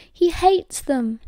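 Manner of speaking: indignant drawn-out plea; protesting. A narrator's reading. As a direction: insist on it, stretching the words. Son protests to his mother.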